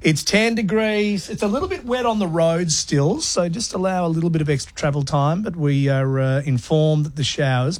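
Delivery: lightly voiced upbeat radio host patter; mock breezy on-air link, rattled off. Host parodying a commercial radio DJ reading the weather. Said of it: "I can't do a D J shouting things".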